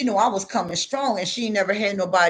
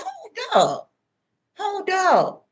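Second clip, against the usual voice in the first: stern hold up; 9 semitones higher, slower than usual. Retold or imitated. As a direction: cut her off sharply. Confronting grandma in retold scene.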